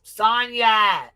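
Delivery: a sudden high call of the name; startled outcry. Real, not acted. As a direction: blurt the name out in shock. Shouting the name on seeing post.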